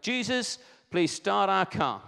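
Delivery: mock-earnest prayer skyward; acted prayer. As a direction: call up to heaven, stretching out each word. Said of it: "he looked up and he went".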